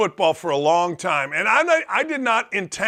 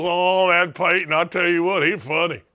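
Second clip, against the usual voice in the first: mock fan chuckling; 2 semitones lower than usual. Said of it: "everybody chuckles".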